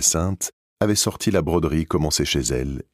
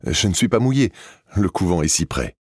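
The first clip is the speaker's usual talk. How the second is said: fresh voice; 4 semitones higher than usual. Acted. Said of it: "a dit une voix fraîche".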